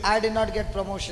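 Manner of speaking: low, quick, mildly glum grumble; mock material sorrow. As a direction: drop the pitch in pretend disappointment. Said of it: "Material sorrow". (தாழ்ந்த குரலில் போலி வருத்தம்)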